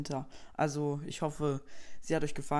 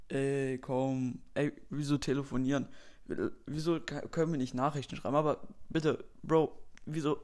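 null Bock. Acted. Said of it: "Der, der nie Bock aufs Telefonieren hat".

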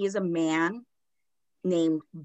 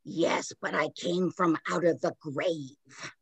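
ghost voice; 2 semitones lower, 4 dB quieter than usual. Retold or imitated. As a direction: say it quietly from beyond the grave. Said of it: "And Gross goes".

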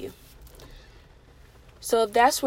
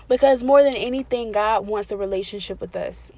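louder, building preacher climax; rising praise; 9 dB louder than usual. Real, not acted. Preacher swelling louder as she tells God's creation. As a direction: swell it up with joy, louder each phrase.

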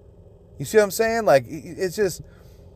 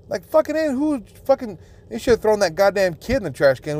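indignant outburst; 5 semitones higher than usual. Real, not acted. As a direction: pitch shoots way up in outrage. Ranting about the rude kid.

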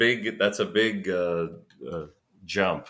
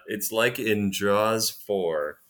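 mocking repeat; 4 dB louder, slower than usual. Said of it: "how many podcasts have had that".

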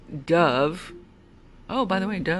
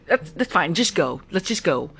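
imitating a bossy, impatient passenger; bossy rider. Rider hurrying the driver to just go, mildly bossy. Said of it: "ordering me".

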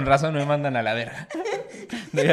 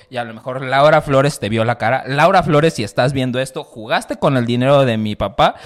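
loud joking rant at the camera; mock outraged call-out; 10 dB louder than usual. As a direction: call her out, loud and indignant. Calling out Laura Flores on camera.

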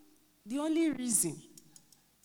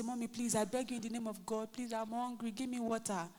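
put-on pleading child; 6 dB quieter than usual. Son begging mother for water.

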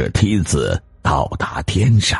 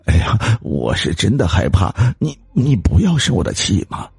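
softened pleading; 4 semitones higher than usual. Acted. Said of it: "语气明显放缓地说".

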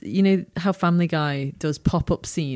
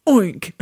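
aggressive oink; 4 semitones higher, 4 dB louder than usual. Retold or imitated. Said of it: "like, really aggressively".

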